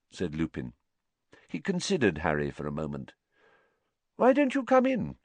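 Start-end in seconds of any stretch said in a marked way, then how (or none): 4.2-5.2 high, inviting question; friendly invitation. A narrator's reading. Teacher welcoming Harry into his office, friendly. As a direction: invite him in pleasantly.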